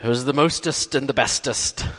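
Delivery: playful nod to a champion's brag, not a full impression; "mostest" and "bestest" thrown out like a boast; Muhammad Ali boast. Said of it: "What Muhammad Ali did".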